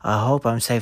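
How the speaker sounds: mock-scared guy in a put-on voice; hammed-up damsel worry; timid guy. Retelling a porn scene, hint of a timid guy. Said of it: "He's like".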